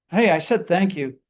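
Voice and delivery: irritated insistence on hey; annoyed thank you. Shown as a demonstration. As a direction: snap it defensively. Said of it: "didn't say it with the right tone".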